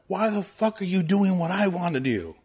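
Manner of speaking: mock whiny fan. Mimicking a gatekeeping anime fan, hammed-up indignant whine. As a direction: sneer at someone doing your hobby.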